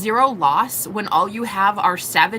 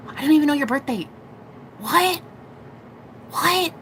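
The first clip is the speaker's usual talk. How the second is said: high-pitched, put-on incredulous protest; mock indignant disbelief; 5 semitones higher than usual. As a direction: act baffled and affronted, pitched well up. Acting out waking up indignant.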